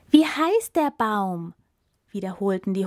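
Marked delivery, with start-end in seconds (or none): 0.1-1.5 high, slow, loud repeated call; hungry pleading. Acted. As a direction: beg for the answer again. Hungry animals repeating question.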